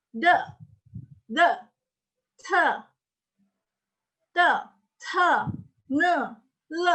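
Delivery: D, T, N, L as short tongue-tip taps; tongue-tip sounds. Shown as a demonstration. Teacher drilling ujung lidah sounds, tongue-tip taps. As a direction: tap each D, T, N, L separately with the tongue tip. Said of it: "suara ujung lidah itu".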